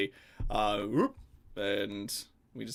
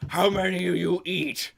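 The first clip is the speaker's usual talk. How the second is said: higher, louder gruff barmaid voice; troll barmaid; 8 semitones higher, 7 dB louder than usual. Acted. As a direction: bark it at the table like a weary troll. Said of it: "troll barmaid ... goes".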